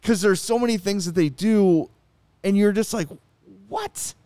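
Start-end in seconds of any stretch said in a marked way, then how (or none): 3.7-4.1 much higher, incredulous what the hell; exasperated disbelief. Retold or imitated. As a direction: throw up your hands in disbelief. Imitating exasperated fan reaction.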